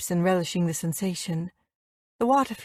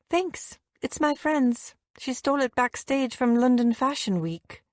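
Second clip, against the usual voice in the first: brighter reply; 4 semitones higher than usual. Acted. Narrator's own quoted reply.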